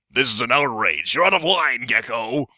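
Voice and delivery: outraged interjection from the floor; indignant protest. Acted. Heckler objects to Gekko's speech, indignant.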